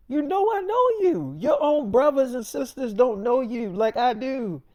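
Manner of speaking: high, emphatic insistence from a retold friend; insistent retort. Friend calling out David's lie, high insistent retort.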